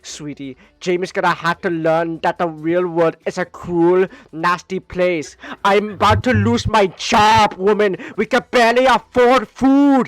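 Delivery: mock husband rant, building to loud; angry husband. Husband yells at wife about money.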